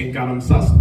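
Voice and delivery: quick mock Scouse line; Scouse rap patter; Scouse accent. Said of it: "that's my Scouse accent".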